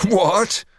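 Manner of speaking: high, incredulous "what"; rising exclamation of derision; scornful disbelief. Acted. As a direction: react with mocking astonishment. Sergeant derides bully's threat.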